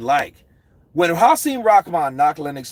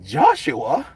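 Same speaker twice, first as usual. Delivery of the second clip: higher, soft and slow pleading; a hint of a nervous manager; quietly begging don't say that; pleading handler; 10 semitones higher, 4 dB quieter, much slower than usual.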